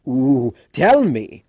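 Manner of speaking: slow, loud, drawn-out coo; mock-sweet coo. A narrator's reading. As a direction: coo it theatrically. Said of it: "Discord cooed".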